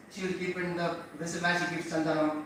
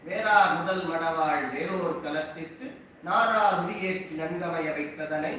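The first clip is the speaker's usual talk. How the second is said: Tamil verse rattled off at speed; rapid verse recitation; much faster than usual. Acted. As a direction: chant the pasuram fast and even.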